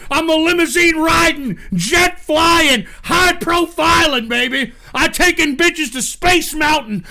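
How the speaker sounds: a hint of a hyped wrestler promo; Ric Flair promo. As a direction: brag it like a wrestling interview. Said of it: "We're doing Ric Flair style".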